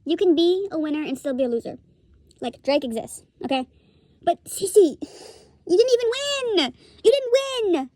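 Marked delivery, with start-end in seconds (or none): 4.4-7.9 high, drawn-out incredulous jab; exasperated, voice leaping up on each phrase. Real, not acted. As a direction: stretch it out in high-pitched disbelief. Exasperated taunt at the loser.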